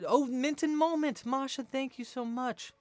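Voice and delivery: high, delighted exclamation; excited thanks. Real, not acted. Streamer thanking a viewer for donating, excited.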